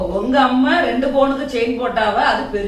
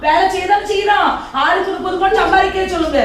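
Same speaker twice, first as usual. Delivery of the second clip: angry shout; 6 semitones higher than usual. Acted. Wife shouting down her mother-in-law, angry.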